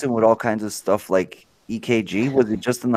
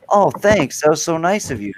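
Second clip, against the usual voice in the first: retold polite thanks; 6 semitones higher than usual. Retold thanks for an insulting gift.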